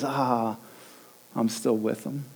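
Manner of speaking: hushed, low-pitched divine aside; a soft, low sigh of acceptance; gentle reassurance. Acted. God looking down at your life, gentle reassurance.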